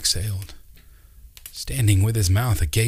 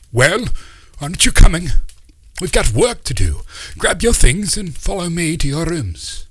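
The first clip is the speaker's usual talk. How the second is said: much louder, higher summons from the next room; hearty call; 10 semitones higher, 7 dB louder than usual. Acted. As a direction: call them to follow, full of bustle. Uncle Doc calls them.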